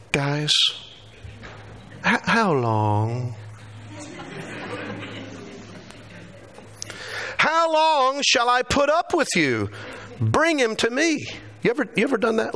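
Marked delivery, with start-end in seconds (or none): 0.1-11.2 drawn-out, high, weary "how long", pushed to the limit; exasperated rebuke. Acted. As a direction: sigh it out like a fed-up teacher, then snap the order. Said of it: "do you think Jesus said".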